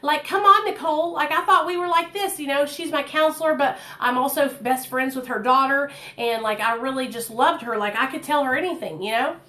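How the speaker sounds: lightly voiced disappointed Miss Kim; hurt counselor. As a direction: scold a friend you trusted. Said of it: "she's like".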